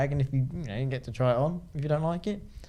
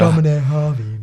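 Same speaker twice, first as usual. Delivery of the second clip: loud, badly faked English actress accent; hammed-up film heroine catchphrase; Keira Knightley; 9 dB louder than usual. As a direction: belt out a bad actress impression. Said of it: "That's your Keira Knightley impression".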